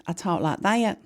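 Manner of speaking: a touch of Mississippi drawl; Mississippi accent. Shown as a demonstration. Showing how they talked after Mississippi, Southern American accent. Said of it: "Then we moved to Mississippi".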